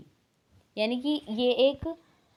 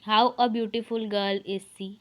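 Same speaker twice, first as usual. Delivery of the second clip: slow wrong example; much slower than usual. Shown as a demonstration. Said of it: "ये wrong sentence है".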